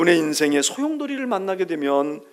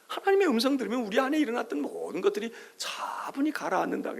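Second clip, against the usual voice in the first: whispered calm; 3 semitones higher, 6 dB quieter than usual. Acted.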